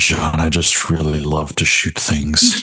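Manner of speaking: low voice with grave, total conviction. Recounting a favorite scene, imitating Dargo's grave conviction. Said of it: "with absolute like conviction and gravitas".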